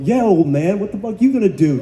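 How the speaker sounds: taunting right back. Retold or imitated. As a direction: fire back at the older actor. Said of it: "let's give it back to him".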